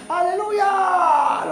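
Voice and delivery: high, very slow, long drawn cry; shouted hallelujah. Retold or imitated. New convert shouting in church.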